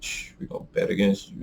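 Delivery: whispered conspiratorially; mock whisper. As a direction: hush it like a secret plot. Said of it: "they're like".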